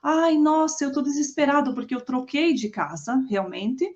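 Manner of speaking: put-on a childlike near-crying plea; half-acted frantic phone call; mock desperate whine. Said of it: "desesperado no telefone, como uma criança quase chorando".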